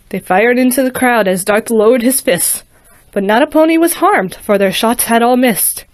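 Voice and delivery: lively rhyming storybook reading; story narration. A narrator's reading. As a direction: read it like a bedtime rhyme. Rhyming story read aloud.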